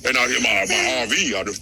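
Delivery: low mock-Southern voice; Southern accent. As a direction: play a Southerner in a low register. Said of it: "You so Southern".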